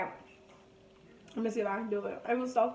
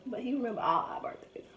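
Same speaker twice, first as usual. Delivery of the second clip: breathy unvoiced hush, no tone at all; raspy whisper; 4 dB quieter than usual. Shown as a demonstration. Imitating her father's raspy voice for the audience, whispered. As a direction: whisper it low and raspy, like dad's worn voice. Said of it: "real deep voice like this".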